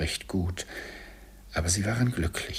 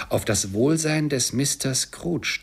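toast; 6 semitones higher, 3 dB louder than usual. Acted. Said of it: "rief Bob".

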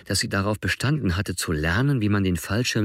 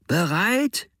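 high, drawn-up shouted question; acted shout, much higher; 11 semitones higher than usual. A narrator's reading. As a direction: call it out with pitch leaping up. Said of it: "schrie Carlos".

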